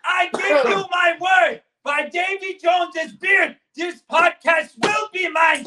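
defiant pirate parting threat; pirate vow. Acted. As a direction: swear vengeance like a villain. Pirate vows revenge leaving.

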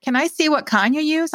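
high-pitched eager request. A narrator's reading. Visitor asks old baker for the bottle, eager. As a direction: ask keenly, hoping to be shown. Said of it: "I asked eagerly".

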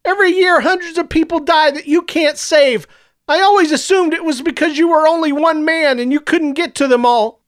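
high, loud and relentless; accusing shout. A narrator's reading. Clovis accusing Superior of the deaths, shouting high. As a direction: keep yelling the charge at him.

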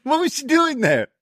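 mock disbelief. Real, not acted.

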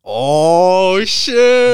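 sudden high shocked outburst. Real, not acted. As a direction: jolt up in real surprise. Reacting to a creepy scenario.

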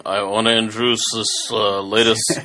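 put-on lightly slurred, drowsy drunk mumble; a hint of a sloppy drunk slurring; drunk Johnny Depp. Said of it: "You need to go watch a video".

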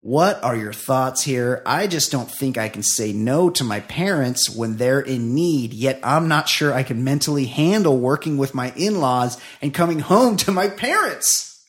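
reading a listener's plea aloud; email read-out. A narrator's reading. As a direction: build toward an exasperated finish.

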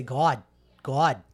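lightly imitated Boston accent; a hint of Boston on God, open vowel; Meryl Streep's Boston accent. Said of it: "leaning into, like, that New England accent".

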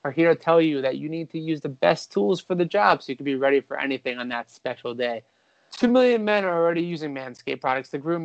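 upbeat podcast ad read; host reading a Manscaped sponsor spot, light ad voice. Acted. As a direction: sell the grooming kit to the fellas, breezy and bright.

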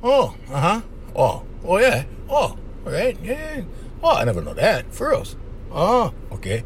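soft, half-absent murmurs of agreement; fake-interested little oh, yeahs; mock attentive listening. Shown as a demonstration. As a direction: play the bored but polite boyfriend going uh-huh. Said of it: "master the art of sitting down and going".

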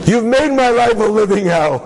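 hammed-up aggrieved outburst; bitter accusation. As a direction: lay the blame on him dramatically. Woman blames rabbi in acted quarrel.

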